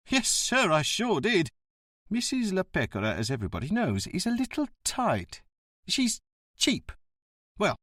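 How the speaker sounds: surly bus driver. Acted. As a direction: play the grumbling ticket man.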